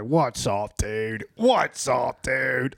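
imitating a friend's heavy Philly accent; very hard Delco accent; thick Delco accent. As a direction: lean hard into Delco vowels. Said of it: "what might be the thickest of that voice".

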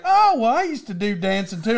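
high-pitched "oh, well", then settling down; imitated grandma. Grandma chiming in about dancing, imitated with high onset.

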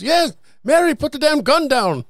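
husband voice. Retold or imitated. Joke punchline, husband voiced.

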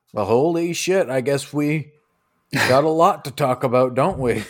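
mild surprise. Acted. Scene: Shirax sizes up Silas, surprised. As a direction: caught off guard, amused.

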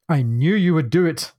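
lightly lampoon an angry Scotsman's intonation; lampooned Scottish. Acted. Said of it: "slightly lampoon the Scottish intonation".

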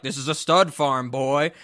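even, unhurried imitation of a farmer; understated calm retort; mock calm farmer. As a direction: play the farmer lightly, totally unruffled. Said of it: "the farmer very calmly is like".

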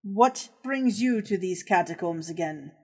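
gloating villain with a cruel laugh; sinister villain voice. Acted. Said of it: "and he says".

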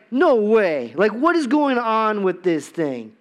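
exasperated disbelief at a failing machine; retold disbelief. Describing the broken snowblower to the church, incredulous outburst.

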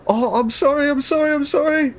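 high, flustered sorry; sheepish apology. Acted. Player character apologises to ladies.

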